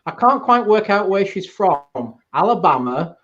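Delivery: slow, drawn-out mock American voice; loudly questioning where she's from, slow American; mock American accent. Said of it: "I said very loudly next to her".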